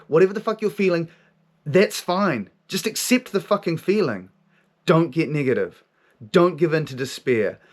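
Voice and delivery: high, emphatic exhortation in short bursts; forceful inner voice. Retold or imitated. Voice urges him not to despair, high and forceful. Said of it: "comes in with this force of energy".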